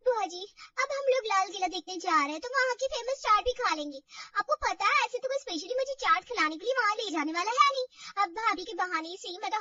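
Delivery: high and loud with glee; excited. Acted. Sister-in-law tells aunt about eating chaat, high and loud. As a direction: gush about the street food.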